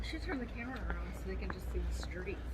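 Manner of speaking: whisper. Real, not acted. Whispering behind the camera.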